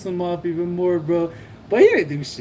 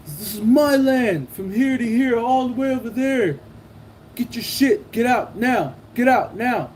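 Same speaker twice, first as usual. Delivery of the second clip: retold angry ordering; 6 semitones higher than usual. Retold rival claiming the land.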